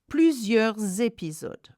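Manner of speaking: "Plusieurs épisodes" linked with a clear z; careful liaison demo, plusieurs-zépisodes. Shown as a demonstration. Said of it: "it's a Z sound".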